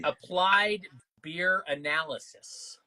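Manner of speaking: "Applied Beer Analysis" spelled out slowly, word by word; slow clear repeat. Real, not acted. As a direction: say the name slowly so he can write it down. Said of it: "Was that Applied what?".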